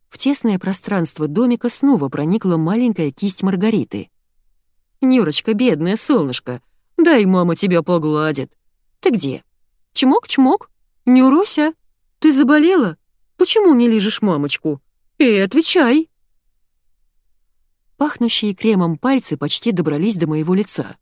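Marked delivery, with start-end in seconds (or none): 5.0-16.1 higher, louder cooing to the dog, then a demanding call. Acted. Wife coaxing the dog in the kennel, cooing, then calling louder.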